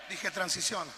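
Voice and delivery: "transiciona" shouted as a firm order; preacher shouting "transiciona" to push them; shouted command. Shown as a demonstration. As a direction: bark "transiciona" at the congregation.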